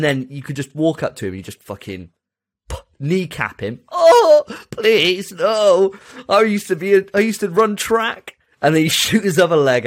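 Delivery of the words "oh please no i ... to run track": loud, high wounded begging; desperate pleading. Pretend. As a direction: beg for mercy in pain. Kneecapped soldier pleading.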